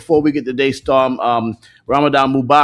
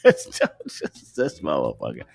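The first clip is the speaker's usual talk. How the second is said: slow, low amused mutter; 13 semitones lower, 8 dB quieter, much slower than usual. Real, not acted. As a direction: grumble it under your breath. Muttering at frozen guest.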